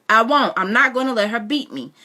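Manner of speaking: put-on boy refusing to drop the knife; defiant shout. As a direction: refuse flat out. Boy refuses his mother.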